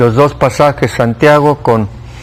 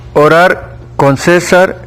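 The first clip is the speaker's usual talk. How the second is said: "César" stressed on the first syllable, like the name; slow demo, "César" with accent on the E; 2 semitones higher, slower than usual. Shown as a demonstration. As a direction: punch the CÉ in "César". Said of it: "ya con acento en la E".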